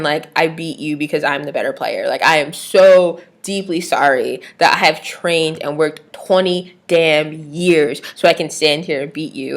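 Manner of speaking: drip with sarcasm as you apologize for winning; sarcastic fake apology. Vlogger mocking a fake sorry Serena, sarcastic apology. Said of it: "excuse the hell out of Serena for not being like".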